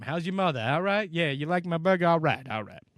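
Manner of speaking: a friendly Boston burger guy, lightly done; Mark Wahlberg impression. Imitating Mark Wahlberg selling his burgers, light Boston accent. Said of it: "So that's my Mark Wahlberg".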